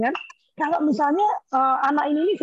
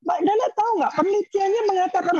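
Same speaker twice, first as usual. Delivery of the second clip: put-on cheeky child; 8 semitones higher than usual. Child lecturing grandmother.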